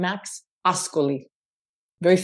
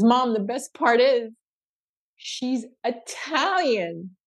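drawn-out reveal; 3 semitones higher, much slower than usual. Acted. Son's proud reveal before punchline.

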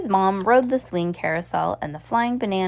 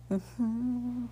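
talking over a sip of coffee; words around a mouthful of coffee; while sipping a drink; 5 semitones higher, 11 dB quieter than usual. Real, not acted. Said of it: "I'm drinking coffee".

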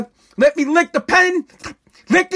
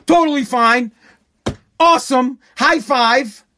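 deadpan fake approval; sarcastic. Shown as a demonstration. Telling taxpayers it is fine, dripping sarcasm. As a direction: say it like you mean the opposite.

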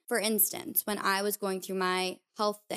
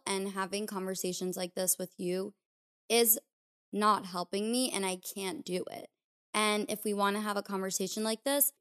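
calm. Retold or imitated. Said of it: "I said it in a very calm way".

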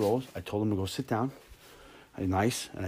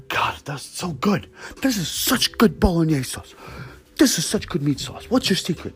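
high, loud raving over food; mock gushing woman; 8 semitones higher, 5 dB louder than usual. Gushing diner voiced in story.

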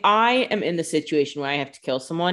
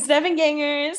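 high squeal; 11 semitones higher than usual. Pretend. Fans gushing over a fake name.

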